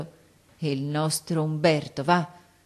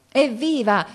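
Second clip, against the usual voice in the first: raised-voice hurrah, falling at the end; shouted cheer; 7 semitones higher, 5 dB louder, slower than usual. A narrator's reading. Soldiers hailing Umberto in their midst, shouted cheer. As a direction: cheer out high and loud. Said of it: "noi gli gridammo".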